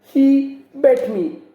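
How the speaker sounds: put-on high, whiny child tattling to the teacher; mock a kid running to sir to complain; a child's high complaining voice. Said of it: "come up to me and complain".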